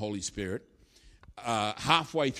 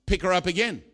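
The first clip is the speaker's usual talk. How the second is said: loud, higher Yorkshire command; Yorkshire accent; 6 semitones higher, 5 dB louder than usual. Acted. Preacher telling helpers to lift her, Yorkshire accent. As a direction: call it out as a blunt Yorkshireman. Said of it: "in his Yorkshire accent".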